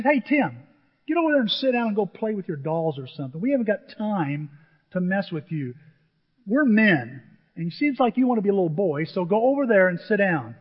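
acted boss at boiling point, putting someone in his place; boiling foreman. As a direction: scold a worker like a fed-up foreman. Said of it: "My foreman is boiling".

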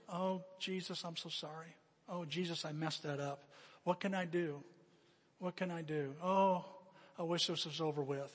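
soft, understated penitent plea; mild remorse. Acted. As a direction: apologize softly, as if praying in regret. Voices sinner's apology to Jesus.

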